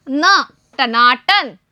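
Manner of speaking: टनाटन stretched out slowly; slow model word. Shown as a demonstration. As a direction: draw टनाटन out for the class. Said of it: "अब एक साथ बोलिए". (टनाटन धीरे-धीरे)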